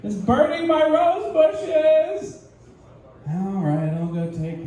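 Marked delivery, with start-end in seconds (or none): 0.0-2.4 high, slow nagging complaint; high, drawn-out nagging; nagging wife voice. Acted. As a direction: whine it at him like a fed-up wife. Misty voiced nagging Ash.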